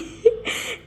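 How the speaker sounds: short unvoiced giggle; soft breathy laugh. Real, not acted. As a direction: let out a quiet happy laugh. Narrator laughs after line.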